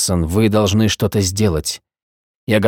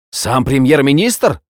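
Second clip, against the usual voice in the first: slow, higher, hammed-up awe; milk it like a stage actor; theatrical exclamation; 4 semitones higher, slower than usual. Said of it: "театрально воскликнул он".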